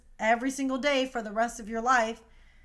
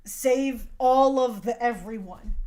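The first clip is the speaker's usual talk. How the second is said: mock heroic Goku; 6 dB louder, slower than usual. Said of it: "Goku literally said".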